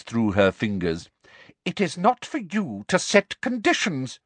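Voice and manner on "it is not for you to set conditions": harsh. A narrator's reading. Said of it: "said Professor Umbridge harshly".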